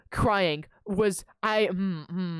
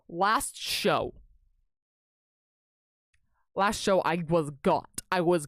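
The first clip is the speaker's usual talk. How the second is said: ominous echo; 4 semitones lower, slower than usual. Real, not acted. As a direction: echo it darkly, like a doom warning. Dramatic repeat of phrase.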